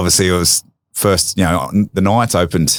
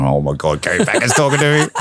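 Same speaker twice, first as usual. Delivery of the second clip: starstruck inner thought. Retold or imitated. A young player, awestruck opposite Kerry Packer, mock-excited. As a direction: gush it to yourself, half-joking. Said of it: "And just saying".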